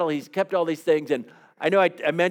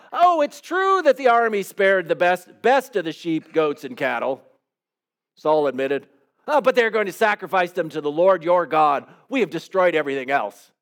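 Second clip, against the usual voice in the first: Saul excusing himself; 2 semitones higher than usual. Retold or imitated. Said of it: "he starts".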